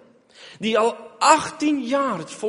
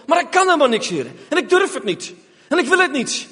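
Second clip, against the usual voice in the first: desperate confession; 7 semitones higher, 3 dB louder, faster than usual. Acted. Confessing weakness to God.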